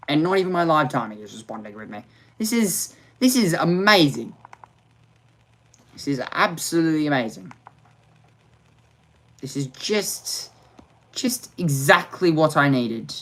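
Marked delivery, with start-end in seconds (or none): 2.4-13.1 dripping sarcasm, mock delight; sarcastic praise. Real, not acted. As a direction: praise the disaster ironically.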